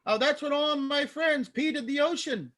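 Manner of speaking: high, put-on German accent; bad German accent. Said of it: "My bad German accent".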